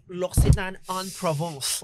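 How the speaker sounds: mock French pronunciation; slow, put-on French accent. Co-host showing off the amenity kit brand, mock French accent. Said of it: "pag marunong ka mag-French".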